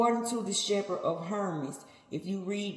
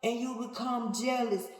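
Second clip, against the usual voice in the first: lightly raised, rebuking God voice; a hint of God scolding Cain; 3 semitones higher than usual. Preacher speaking as God to Cain, mild rebuke. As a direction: scold him gently but firmly, as God.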